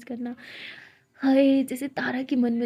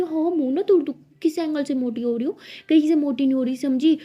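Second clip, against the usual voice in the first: mock angry scolding; 4 semitones higher, 4 dB louder than usual. Siya scolds Tara over dieting.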